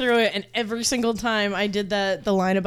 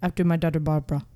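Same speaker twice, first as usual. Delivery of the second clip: quick, lower Caribbean lilt; mock Caribbean accent; 5 semitones lower, faster than usual. Doll's creator naming her daughter, light Caribbean accent. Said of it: "make her from the Caribbean".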